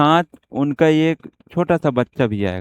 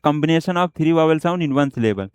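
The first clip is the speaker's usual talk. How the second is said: slow dictation; much slower than usual. Shown as a demonstration. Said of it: "हम उसे बोल सकते हैं क्या".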